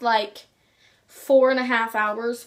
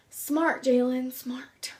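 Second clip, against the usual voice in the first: slow, deadpan dig at yourself; sarcastic self-scolding; 5 dB quieter, much slower than usual. Real, not acted. Vlogger chiding self over downloading the wrong video, sarcastic.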